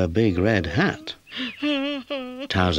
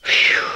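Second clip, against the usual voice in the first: louder phew of relief; relieved sigh; 5 dB louder than usual. A narrator's reading. Puppy relieved the noise was only an owl, sighing phew. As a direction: let the breath out in relief. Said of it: "sighed Towser with relief".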